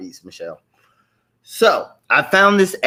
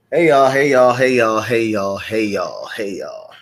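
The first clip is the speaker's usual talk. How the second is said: fading greeting call; 2 semitones lower than usual. Real, not acted. Host calls out greeting, fading.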